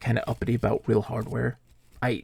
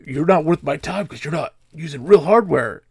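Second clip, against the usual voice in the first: a lightly put-on sneering voice, louder; imitating snooty guy; 4 semitones higher, 7 dB louder than usual. Streamer mimicking hardware purist, light sneer. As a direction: sneer it like a gatekeeper. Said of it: "he was so mad about it".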